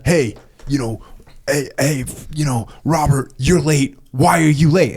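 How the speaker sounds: imitated confrontation, rising to the question; lightly acted demand for an explanation; mildly aggressive. Manager confronting a late employee, mildly aggressive. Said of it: "he's aggressive about it".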